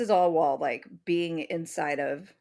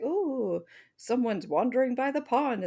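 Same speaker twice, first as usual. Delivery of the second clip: higher, sly delighted monster spotting prey; scheming monster; 5 semitones higher than usual. Retold or imitated. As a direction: relish a victim coming near. Bunyip spots prey scheming.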